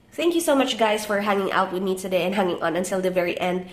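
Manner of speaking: blocked nose from a cold; stuffy nose voice. Real, not acted. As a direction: speak through a stuffy nose. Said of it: "my voice sounds kind of stuffy".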